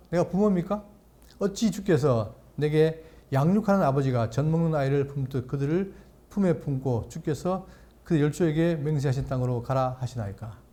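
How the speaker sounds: measured, solemn Bible reading; scripture reading. Acted. Pastor reading Numbers to the congregation, solemn reading. Reads Moses' complaint.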